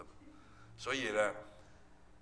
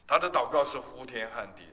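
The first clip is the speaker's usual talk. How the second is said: louder emphatic restatement; preacher's raised restatement; 5 dB louder than usual. Shown as a demonstration. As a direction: push the phrase out to the room. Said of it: "我的母亲的祷告是呼天喊地".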